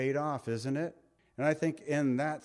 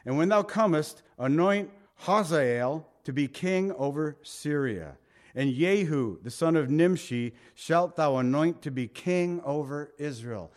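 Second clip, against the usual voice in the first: raised, measured King James reading; preacher reading Elijah's complaint from the Bible; scripture reading; 3 dB louder than usual. Acted. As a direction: read it out with weight.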